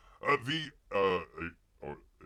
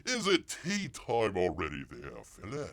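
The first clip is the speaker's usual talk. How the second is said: mock Cockney accent. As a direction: fake British, questioning. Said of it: "best Cockney English".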